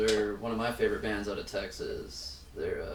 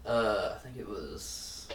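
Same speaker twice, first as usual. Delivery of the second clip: hungover; 2 semitones lower, 3 dB quieter, slower than usual. Real, not acted. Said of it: "I'm really hungover right now".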